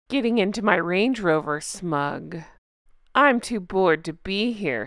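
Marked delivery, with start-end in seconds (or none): 1.6-2.4 smug caption. Pretend. One-word smug caption.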